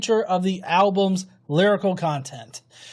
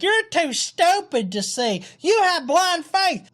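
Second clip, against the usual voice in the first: mock whiny troll; 8 semitones higher than usual.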